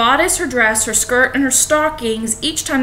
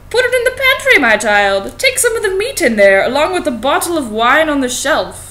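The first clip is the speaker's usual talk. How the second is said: a wolf faking a kindly grandma, pitched way up; wolf playing granny; 3 semitones higher than usual. Wolf posing as granny speaks.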